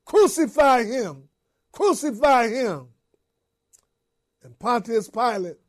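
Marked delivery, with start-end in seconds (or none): 0.0-2.9 crowd crying out. Retold or imitated. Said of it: "they cried out even more".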